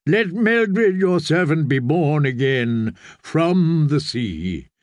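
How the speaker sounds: lightly intoned slow prayer; measured ritual blessing from a priest; priest's blessing. Acted. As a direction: intone it slowly, line by line.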